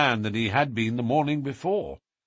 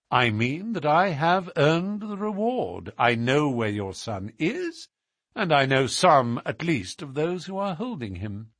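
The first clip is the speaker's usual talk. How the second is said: higher-pitched confident detective; assured, declarative Holmes; 5 semitones higher than usual. Acted. Holmes claims the reward from the Duke, assured. Holmes announces his discovery.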